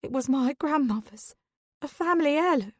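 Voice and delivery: high, weepy, hammed-up grief; theatrical tearful lament; dramatic sobbing. A narrator's reading. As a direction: wail it like a drama queen. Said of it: "Dawn sobs dramatically again".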